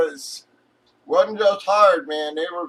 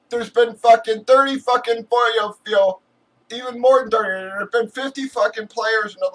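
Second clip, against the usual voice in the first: heated rant; 3 semitones higher than usual. Retold or imitated. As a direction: tear into her with rising heat. Ranting retelling to lady.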